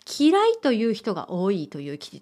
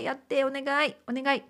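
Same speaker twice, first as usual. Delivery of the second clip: soft, sweet pleading, quieter; fake cute pouty voice; 3 semitones higher, 6 dB quieter, faster than usual. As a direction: coax him gently with a soft please. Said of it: "優しい感じで".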